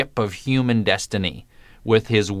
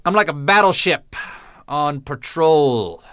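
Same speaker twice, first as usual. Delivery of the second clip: mock tough-guy boast; 5 semitones higher than usual. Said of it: "him once saying".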